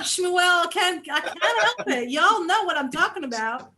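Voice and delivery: a light South African lilt; South African accent, lightly done. Acted. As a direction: let the put-on South African accent slip through. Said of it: "fake South African accents".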